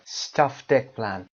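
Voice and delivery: stuffed eggplant drawn out and joined; stuffed eggplant run together; slow linked demo. Shown as a demonstration. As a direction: link stuffed into eggplant slowly.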